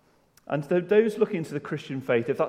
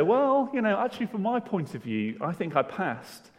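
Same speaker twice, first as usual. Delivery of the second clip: defensive excuse; 6 semitones higher than usual. Acted. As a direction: plead your case to the examiner. Acted excuse to the driving examiner.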